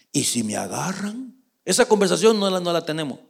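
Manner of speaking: hushed, timid question with rising end; softly voiced misgiving; mild worry. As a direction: ask it small and unsure. David's worried reply to God.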